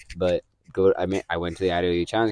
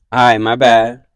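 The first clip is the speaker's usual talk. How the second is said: mock backing down; 3 semitones higher, 10 dB louder than usual. Bully backing down.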